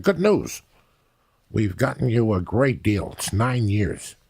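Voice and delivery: chirpy salesman pitch of bad news; quoting the lawyer. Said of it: "He's like".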